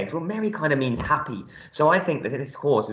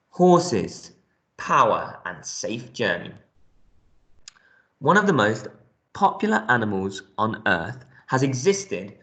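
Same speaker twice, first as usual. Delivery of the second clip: measured classroom read-aloud, slow in places. Real, not acted. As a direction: read the information text out to a class. Reads the text aloud.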